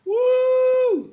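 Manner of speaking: loud high whoop; excited cheer. Real, not acted. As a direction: cheer the group in. Player cheers greeting.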